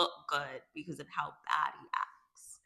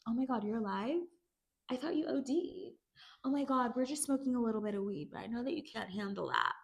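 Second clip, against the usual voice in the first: high, put-on mean-girl voice; high imitation of catty teasing; mock taunting twins; 7 semitones higher, faster than usual. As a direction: mimic them needling her, pitched way up. Acts out twins taunting Rue.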